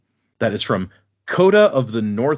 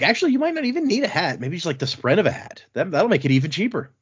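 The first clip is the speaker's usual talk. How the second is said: voicing Lopin; 7 semitones higher, faster than usual. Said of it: "and Lopin's like".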